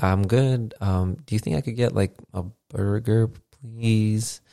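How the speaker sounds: tentative, hesitant request; timid, halting politeness; acted nervousness. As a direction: imitate a guest sheepishly asking a favour. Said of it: "super nervous the entire time".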